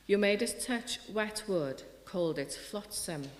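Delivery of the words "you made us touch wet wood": ordinary talk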